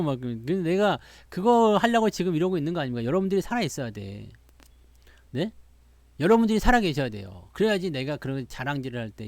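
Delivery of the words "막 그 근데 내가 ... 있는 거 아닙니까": normal talking voice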